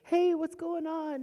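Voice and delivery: loud, slow, high shout; police call. Retold or imitated. Police arriving, loud slow shout. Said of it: "they said".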